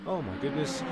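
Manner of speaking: mid-yawn, quiet. Real, not acted. Tired streamer to viewers after a long race, yawning. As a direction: let the words stretch out through a yawn. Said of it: "Apologies if I keep yawning".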